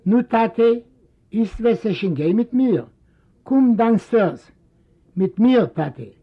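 lightly voiced impatient son; urging son. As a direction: coax the father downstairs. Moses urges father downstairs.

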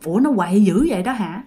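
understated, casual low question; tỉnh bơ, xanh rờn. Acted. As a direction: ask it as if nothing unusual. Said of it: "bà nội hỏi một câu xanh rờn như vậy". (giọng bà nội thản nhiên)

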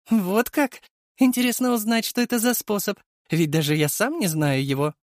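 high, calm and taunting; cool mocking villain. A narrator's reading. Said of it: "сохранить хладнокровие и насмешливость".

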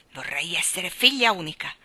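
a touch of bitterness; bitter. Acted. Jane fed up with her siblings, mildly bitter. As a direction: say it sourly, fed up. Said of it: "disse amaramente".

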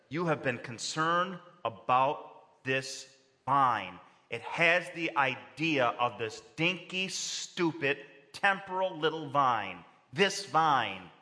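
slow, dismissive, leaning on this dinky little vine; slow mocking weight on This vine; God's scornful intonation. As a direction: belittle the vine, slow and pointed. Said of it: "I can see the intonation".

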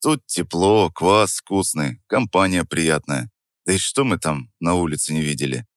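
тихо, неторопливо, расслабленно; уговаривай без тени напряжения; невозмутимо. Acted. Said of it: "с той же невозмутимостью". (невозмутимый, ленивый тон)

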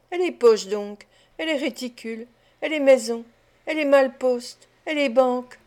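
«et les poches, et les réticules, et les maisons» lancés de plus en plus fort, avec gourmandise; «et les malpostes, et les banques» martelés, plus forts, dans l'ivresse; énumération échauffée. Acted. Claypole, échauffé par la bière, énumère. (Claypole, échauffé par la bière, se vante devant Charlotte, avec fougue)

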